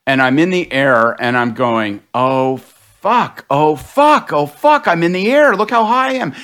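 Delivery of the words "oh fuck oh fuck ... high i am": rising higher with each oh fuck; mock panic building as the car flies; stuck in a flying car in the dream, swearing in rising panic; retold panic. Car goes airborne in dream.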